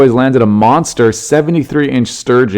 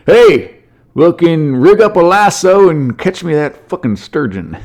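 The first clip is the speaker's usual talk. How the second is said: higher, hammed-up hick voice yelling orders; imitating redneck dad; 7 semitones higher, slower than usual. Father telling his boys to rope the sturgeon, hick voice. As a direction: bark like a rowdy country dad. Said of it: "in my head they do".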